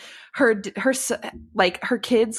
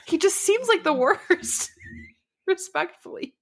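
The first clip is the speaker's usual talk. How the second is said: laughing; 11 semitones higher than usual. Real, not acted. Judging the book's husband, laughing in disbelief. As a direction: laugh it out then soften.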